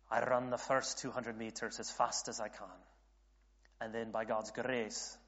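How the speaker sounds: a hint of amateur Scottish brogue; bad Scottish accent. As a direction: put on a rough Scottish accent, lightly. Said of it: "my bad Scottish accent".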